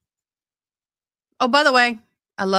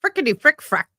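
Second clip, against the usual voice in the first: mock cussing; 9 semitones higher, 4 dB louder, faster than usual. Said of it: "You're the fan of the cursey words".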